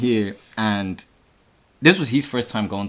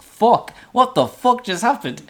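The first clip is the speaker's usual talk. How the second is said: high-pitched, stunned exclamation; retold panic; 13 semitones higher, 4 dB louder, slower than usual. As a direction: relive the shock of fleeing. Retelling panic after fleeing attack.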